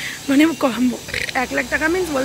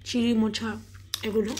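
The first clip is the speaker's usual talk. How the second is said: talking softly; 3 semitones lower, 5 dB quieter than usual. Real, not acted. Mother talking softly to viewers while her daughter sleeps, hushed. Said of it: "আস্তে কথা বলছি কারণ মেয়ে ঘুমিয়েছে".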